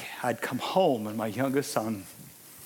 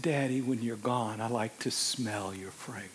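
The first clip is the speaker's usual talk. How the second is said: put-on soft child voice; 2 semitones lower, 5 dB quieter than usual. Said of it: "He said".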